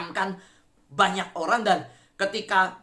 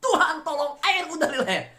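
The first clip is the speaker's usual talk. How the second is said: high-pitched cry for help; urgent acted yell from a sinking man; Peter crying out; 9 semitones higher, 4 dB louder than usual. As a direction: shout to the Lord while going under. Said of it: "dia teriak".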